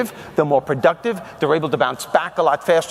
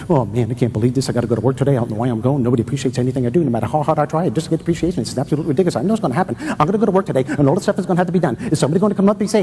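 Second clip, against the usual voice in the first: whiny self-talk; 3 semitones lower, much faster than usual. Retold or imitated. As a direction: moan like a worker dreading the job. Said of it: "like this to yourself".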